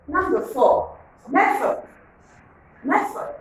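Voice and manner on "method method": "method" high with a rising end; model word. Shown as a demonstration. Teacher modelling a word for pupils, high rising. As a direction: pitch "method" high and let it rise. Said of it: "Can you pronounce that word?".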